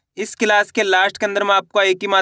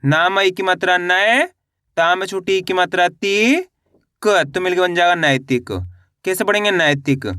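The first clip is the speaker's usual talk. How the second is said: spelling drill. Shown as a demonstration. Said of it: "एक बार फिर से देखिए". (मात्रा जोड़कर खींच-खींचकर पढ़ाना)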